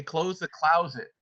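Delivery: slow Missouri demo; Missouri vowel in "closet"; Missouri accent. Shown as a demonstration. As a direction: say it the Missouri way, "klowz-it". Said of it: "If you're from Missouri, they say".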